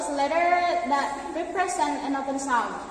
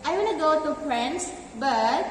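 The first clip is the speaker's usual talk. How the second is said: unfinished tune, left hanging on "but"; partial intonation. Shown as a demonstration. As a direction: leave "but" open, as if more follows. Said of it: "the last one is partial intonation".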